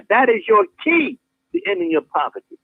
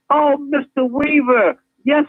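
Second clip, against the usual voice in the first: polite teller; 3 semitones higher than usual. Retold or imitated. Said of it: "the teller will say to you".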